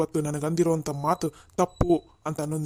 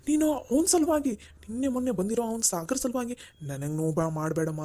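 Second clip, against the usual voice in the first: desperate plea; 5 semitones higher than usual. Acted. Father pleads desperately with daughter.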